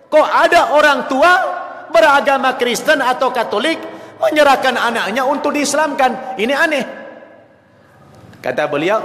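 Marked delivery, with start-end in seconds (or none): 0.1-6.8 astonished. Retold or imitated. Saudi ambassador hears parents handed over their children, astonished. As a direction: retell it as a startled, incredulous question. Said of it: "Duta besar Saudi kaget".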